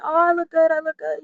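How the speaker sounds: high-pitched imitation of flattery; hyping friends. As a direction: mimic friends hyping someone up. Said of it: "hyping me up".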